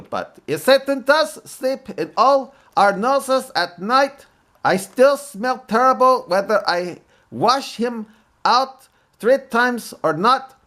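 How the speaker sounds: a light mock Arabic accent, joke-telling comic. A Muslim comic telling jokes in a mild mock Arabic accent. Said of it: "in a mock Arabic accent".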